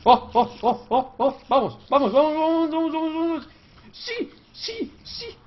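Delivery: rising, loud chant of vamos; triumphant cheer. Real, not acted. Gamer cheering as he finally succeeds. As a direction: build to a high cheer.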